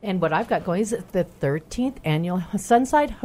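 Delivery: fighting off a sneeze; holding back a sneeze. Real, not acted. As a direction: talk while stifling a sneeze. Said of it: "I'm trying not to sneeze again".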